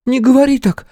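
indignant younger sister. A narrator's reading. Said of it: "возмутилась младшая сестра".

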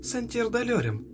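put-on high, slow little girl's spell; thin girlish voice. A narrator's reading. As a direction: cast it in a tiny girl's voice. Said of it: "раздался тонкий девчачий голосок".

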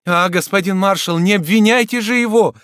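excited pleading cry; urgent plea. Acted. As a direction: beg him to stop. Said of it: "воскликнула Адриенна".

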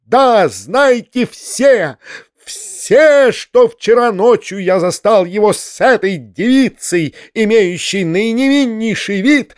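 high, theatrical righteous denunciation; squealing tirade. A narrator's reading. Foma denounces uncle to everyone, squealing. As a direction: declaim high, stretching each damning word. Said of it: "визжал Фома".

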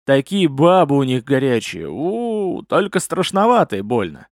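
tipsy slurring uncle; slurred drunk speech. Acted. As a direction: slur the words, drunk. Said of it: "заплетающимся языком проговорил дядька".

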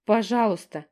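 high, loud breathless wailing apology; chirping lament. A narrator's reading. Younger sister apologising to everyone, chirping lament. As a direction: babble your apologies. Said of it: "зачирикала, запричитала Стежка".

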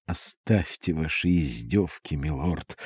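curt retort. A narrator's reading. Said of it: "отрезала королева".

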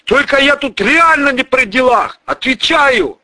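high, loud desperate vow; writhing in pain, swear it; squirming plea. Acted. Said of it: "извиваясь". (извиваясь, высоко и громко)

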